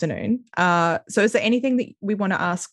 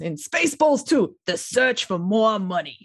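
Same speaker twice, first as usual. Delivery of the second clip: put-on Jewish accent; 2 semitones higher than usual. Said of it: "you put a Jewish accent on the end of that".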